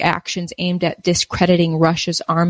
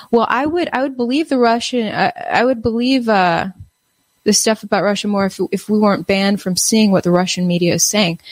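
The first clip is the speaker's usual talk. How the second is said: pitched-up, whiny impression of a doubter; mock American skeptic; 3 semitones higher than usual. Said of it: "I know Americans are like".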